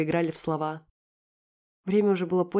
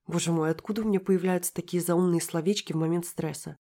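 ordinary delivery, nothing marked

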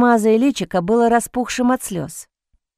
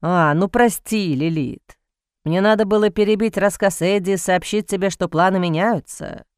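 sarcastic; 2 semitones lower than usual. Acted. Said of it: "прошептал сарказмом Бастиан".

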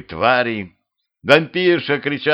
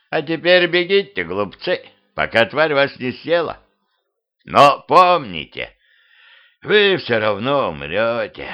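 ominous skeleton; 3 semitones higher than usual. Acted. Skeleton warns fleeing travellers of death, ominous. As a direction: intone doom as a talking skeleton, slowing down.

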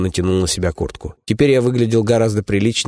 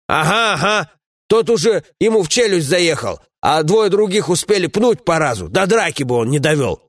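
a lightly raised, scolding comrade's voice; gruff dwarf companion; 9 semitones higher than usual. Acted. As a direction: grumble at a foolish friend, voiced a bit higher.

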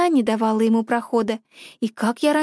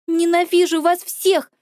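higher, drawn-out shout; slow hateful shout; 5 semitones higher, slower than usual. Acted. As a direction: yell it while running off. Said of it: "крикнула я".

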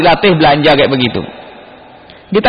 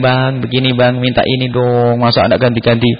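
mock whining; 3 semitones lower than usual. Wife begs husband for things, mildly imitated whine. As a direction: lightly imitate a pleading wife. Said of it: "Istrinya merengek".

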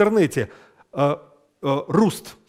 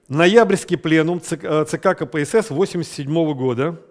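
dictating. Shown as a demonstration. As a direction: read it out for copying. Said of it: "С красной строки".

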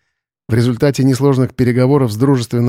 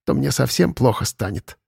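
sighing cat; 4 dB quieter than usual. Acted. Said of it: "вздохнул кот".

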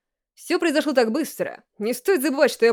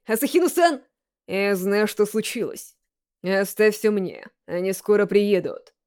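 Koizumi's voice. Acted. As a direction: reassure him coolly. Koizumi on the phone.

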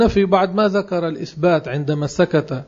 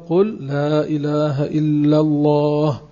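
the whole phrase slowly, word by word; slow teaching; slower than usual. Shown as a demonstration. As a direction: say it slowly so a child can follow. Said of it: "فإذا صار يتقن هذه الألفاظ تقول له". (تلقين الطفل ببطء كلمة كلمة)

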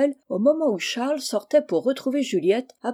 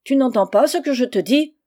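loud, higher, impatient demand; angry scolding; 4 semitones higher, 6 dB louder than usual. Acted. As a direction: scold the servant who will not move. Aunt scolds motionless servant. (réprimande irritée)

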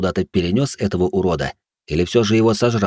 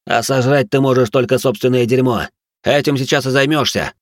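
taunting; 4 semitones higher than usual. Acted. Hero taunts the monster.

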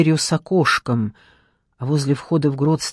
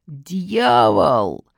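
angry shout; 3 semitones higher than usual. A narrator's reading. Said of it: "закричал мой дед".

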